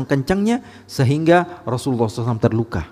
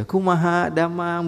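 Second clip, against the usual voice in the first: soft, lilting courteous greeting; gentle Sundanese politeness; 5 dB quieter, slower than usual. Acted. Bandung local asking how you are, gentle and polite. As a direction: ask after someone gently, trailing softer. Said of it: "begitu ngomongnya lebih lembut".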